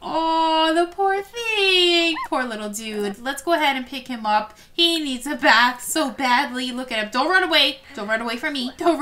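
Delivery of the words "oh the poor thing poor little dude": pitying. Real, not acted. Sims character is sad.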